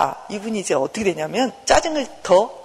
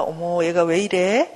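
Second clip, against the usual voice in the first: slow, mild, curious concern; good-mother wondering; 3 semitones lower, slower than usual. Acted. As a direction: look at it gently, drawing the question out. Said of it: "이제는 좋은 엄마처럼 나를 보는 거예요".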